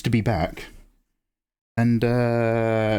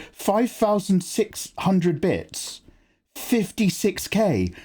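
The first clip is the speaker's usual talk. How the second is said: slow drawn-out; 6 semitones higher, much slower than usual. Real, not acted.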